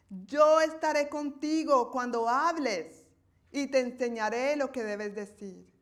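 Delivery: God challenging Moses with rising force; booming voice of God questioning Moses; the Lord speaking. Acted. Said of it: "Entonces el Señor le preguntó".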